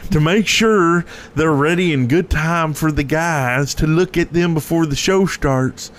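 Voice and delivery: drawling redneck voice; put-on redneck twang; redneck accent. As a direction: read it out like a redneck. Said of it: "do it like a redneck".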